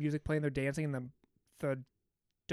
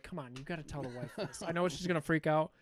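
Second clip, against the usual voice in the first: half-laughing plea at the screen; chuckling through frustration with the dad; laughing exasperation. Real, not acted. Frustrated at film character.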